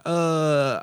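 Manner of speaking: long, high-pitched "uhh"; mock drawn-out groan of impatience; exasperated groan. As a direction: groan as if fed up with waiting. Acting out someone fed up with waiting.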